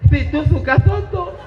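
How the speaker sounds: "soto" said as "toto", lisping the s; imitating a friend who can't say the sound; a mock lisp on "soto"; mock mispronounced Arabic. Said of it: "dijawab sama kawannya".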